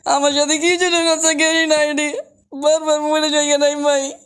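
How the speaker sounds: yelling in disbelief at dying; frustrated outcry. Real, not acted. Just died in the game.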